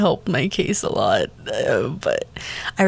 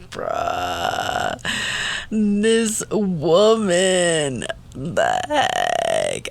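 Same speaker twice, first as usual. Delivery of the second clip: disgusted bruh; much slower than usual. Retold or imitated. Mock-disgusted reaction to lovey-dovey talk.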